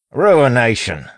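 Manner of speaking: slow, high, loud constable bellow. A narrator's reading. Wayne feigning outrage for those outside, bellow. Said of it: "Wayne bellowed, swapping back to the constable accent".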